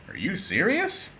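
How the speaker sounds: high, disbelieving question; can't believe this sentence; are you serious, said in high disbelief; incredulous. Real, not acted. Reacting to weird sentence.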